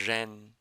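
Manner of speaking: ren with curled tongue, lips apart; Chinese ren. Shown as a demonstration. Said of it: "just trying to make an R sound".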